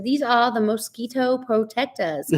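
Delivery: lightly mimicking the skit girls; put-on skit delivery with laughter creeping in; imitating comedy skit. Retelling a pantyhose skit to viewers, playfully imitated. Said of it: "over their head and they said".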